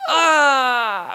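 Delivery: high wounded "ah" of a gut punch; pained gasp. Retold or imitated. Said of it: "gut punch where you're like".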